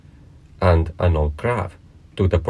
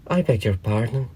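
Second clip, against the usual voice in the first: higher, small apologetic voice; very humble; 4 semitones higher than usual. A narrator's reading. Alice apologises to the scolding mouse, mildly humble. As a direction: apologise meekly, pitched up a little. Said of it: "said Alice very humbly".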